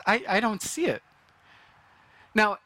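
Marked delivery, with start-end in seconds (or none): 0.1-1.0 mildly sarcastic, disbelieving retort; incredulous servant. Pretend. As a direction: tease the prophet's bad math. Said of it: "my first thought is".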